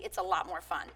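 a hushed, cheeky aside to the audience; conspiratorial whisper. Real, not acted. Speaker confides to the crowd, whispered and playful. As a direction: whisper it like a naughty secret.

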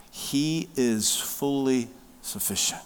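soft unvoiced whisper of assurance. Real, not acted. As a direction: drop to a whisper of comfort. Hushed sermon climax.

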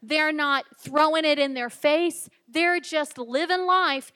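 loud, punched phrases with pauses between; emphatic preaching. Acted. Preacher on living who God made you to be, emphatic preaching. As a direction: drive each point home to the congregation.

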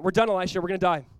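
mildly panicked servant's outcry; a touch of doomed urgency; acted panic. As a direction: voice a servant's alarm, a bit forcefully. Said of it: "the servant".

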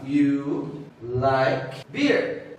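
very slow, low "You like beer?" rising on "beer"; measured teacher's example, "beer" rising at the end; statement turned question. Shown as a demonstration. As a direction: space out each word, then lift "beer" into a question. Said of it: "vamos fazer essa afirmação no portu".

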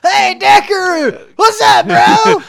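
drunk rocker impression. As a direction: stretch it out like a wasted rock star. Imitating a drunk rock singer's greeting.

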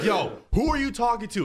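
hammed-up street challenge; mock challenge. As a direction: friend confronting driver, mock high. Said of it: "I was like".

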